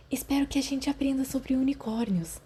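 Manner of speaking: high, soft wistful sigh. A narrator's reading. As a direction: sigh it out dreamily. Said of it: "suspirou Marlene". (suspiro agudo e suave)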